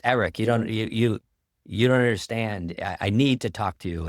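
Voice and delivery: put-on a touch of Americanized Dutch accent, pleading; urgent young man with a light Dutch accent. Young fan begging the speaker after his talk, light Dutch accent. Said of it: "in kind of an Americanized Dutch accent".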